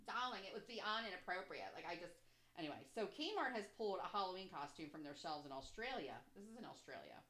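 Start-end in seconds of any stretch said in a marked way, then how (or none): 0.1-1.7 lightly voiced affected mom with her wine; mock an offended mother saying "darling"; wine-sipping mom. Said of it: "I could just see her drinking".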